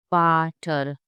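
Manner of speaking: VATER slow, starting with F. Shown as a demonstration. Teacher explaining the German V, V as F. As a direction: draw out "Vater" as "faah-ter". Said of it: "because V is pronounced as F".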